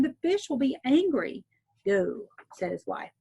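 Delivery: clear, steady read-aloud storyteller voice; story narration. A narrator's reading. Teacher reading a folk tale to listeners, gentle storytelling. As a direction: read it like a bedtime tale for children.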